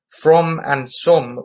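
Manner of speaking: from and some rhymed in a rough northern English accent; bad northern accent. Shown as a demonstration. Teacher showing how the poet would speak, bad northern accent. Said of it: "very bad impression of a sort of northern accent".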